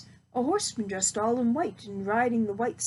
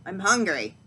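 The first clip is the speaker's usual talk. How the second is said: witch ordering; 3 semitones lower, 3 dB louder than usual. Acted. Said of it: "she ordered".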